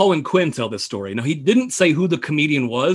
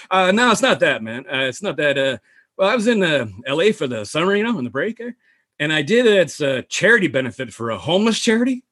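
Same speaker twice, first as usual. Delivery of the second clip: halting, singsong comic impression; lightly imitated rambler, pitch hopping about; Norm Macdonald. Comedian explaining his summer gig, lightly imitated. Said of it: "Norm Macdonald comes into Downey's office".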